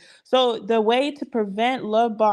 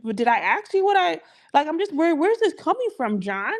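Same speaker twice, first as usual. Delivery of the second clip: confused indignation. Retold or imitated. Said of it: "You'd be like".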